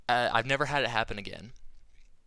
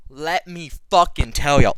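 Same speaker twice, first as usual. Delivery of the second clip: louder, slowed down for emphasis; emphatic buildup; 4 semitones higher, 12 dB louder, slower than usual. Real, not acted. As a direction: lean in and announce it to the audience. Building up to the big meal.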